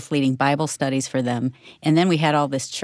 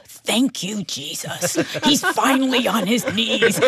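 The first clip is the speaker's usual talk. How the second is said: retold thrilled prayer of thanks, pitched up; excited relief; 6 semitones higher than usual. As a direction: act out overjoyed relief at finally seeing it. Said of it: "I'm so excited to see him".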